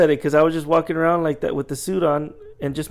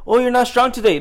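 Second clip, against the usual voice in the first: higher, lightly mocking customer voice; teasing customer; 8 semitones higher, 4 dB louder than usual. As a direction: imitate a customer ribbing you. Mimicking customers' teasing joke.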